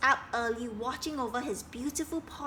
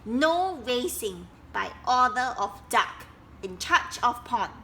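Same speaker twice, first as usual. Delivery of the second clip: official sign; 5 dB louder than usual. Acted. Reading Duck's sign.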